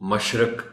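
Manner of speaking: مشرق with an a in the second syllable, mash-raq; common mispronunciation. Shown as a demonstration. Teacher showing how children misread مشرق, with a in the second syllable. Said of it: "پڑھ، پڑھ اور بول جاتے ہیں".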